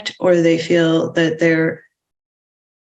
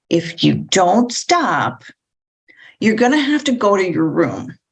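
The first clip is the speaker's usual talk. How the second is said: menacing threat. Shown as a demonstration. Parent to misbehaving child, menacing. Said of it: "a voice that's menacing".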